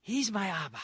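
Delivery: loud, high joyous declaration; triumphant proclaim. Real, not acted. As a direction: proclaim it to the congregation.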